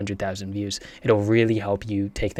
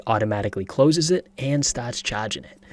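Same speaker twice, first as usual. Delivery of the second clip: lightly mimicked Boston accent. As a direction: quote it with a touch of Boston accent. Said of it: "It's the Boston accent".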